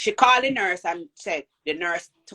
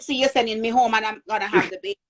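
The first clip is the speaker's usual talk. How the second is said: retold protest; 2 semitones higher, 5 dB louder, faster than usual.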